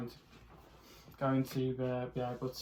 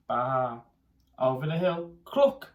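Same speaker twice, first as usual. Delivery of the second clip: building excitement; 2 semitones lower, 7 dB louder than usual. A narrator's reading. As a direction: build to a shout. Chase building to climax.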